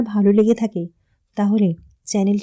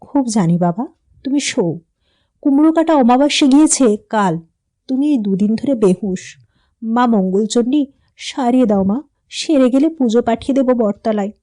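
sad; 2 semitones higher than usual. Acted. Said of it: "ওর মা বিষণ্ণভাবে ঘাড় নেড়ে বললে".

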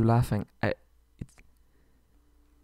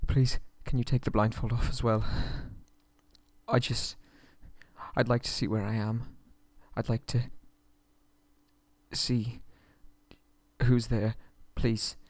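meek plea; 6 dB quieter than usual. Acted. Blindfolded captive asking meekly.

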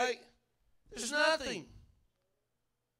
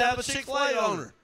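mock proud shout; 5 dB louder than usual. Pretend declaration while walking around.

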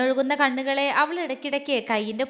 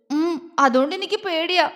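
higher, tearful little admission; sniffly, acted; 4 semitones higher than usual. A narrator's reading. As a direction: confess fear as if sniffling. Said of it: "അവൾ മൂക്ക് വലിച്ചുകൊണ്ട് പറഞ്ഞു". (മൂക്ക് വലിച്ച്, പേടിയോടെ)

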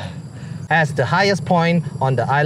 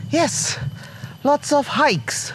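sarcastic; 10 semitones higher, much slower than usual. Acted. Mocking own workout claims.

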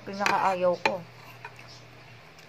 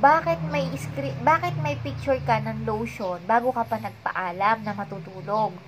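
retold angry confrontation. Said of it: "Galit na ako".

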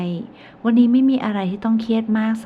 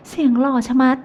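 higher and louder, swooning; gushing friend; 6 semitones higher, 6 dB louder than usual. A narrator's reading. Pat gushes to her friend about his voice, higher and louder. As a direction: gush over how handsome he sounded.

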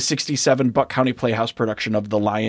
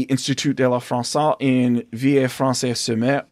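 hammy made-up French pronunciation; Villers-Francais-sur-Mer said with an over-the-top French accent; fake French. Shown as a demonstration. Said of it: "That is fake French by me".

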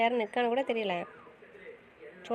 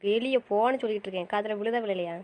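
angry shout. Acted. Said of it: "ஏன் சத்தம் போட்டுட்டு இருக்க".

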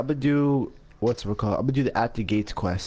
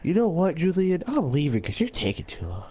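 mocking echo; 5 semitones higher than usual.

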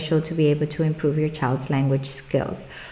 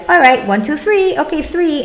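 quick sloppy counting, much higher; careless rushed count; 8 semitones higher, 4 dB louder than usual. Shown as a demonstration. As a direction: rattle off the numbers without care. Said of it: "We're not just gonna be like".

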